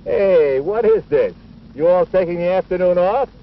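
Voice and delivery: a coach hollering at slacking players; calling out. Acted.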